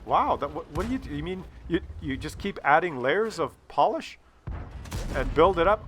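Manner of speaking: soft, politely curious retold question; a touch of polite fake interest. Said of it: "But very politely I said".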